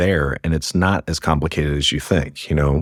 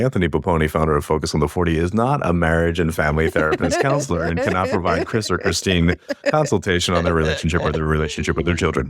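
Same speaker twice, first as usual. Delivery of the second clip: deadpan official qualifying statement; mock formal disclaimer. Founder disclaiming marriage counseling to podcast hosts, mock formal. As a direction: read out a tongue-in-cheek legal disclaimer. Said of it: "make a qualifying statement".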